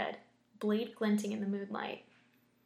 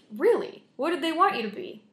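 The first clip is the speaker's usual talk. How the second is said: put-on eager kid voice; 7 semitones higher, 8 dB louder than usual.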